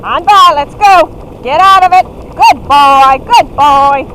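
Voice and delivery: loud musher calls; calling commands. Real, not acted. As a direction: urge the team on.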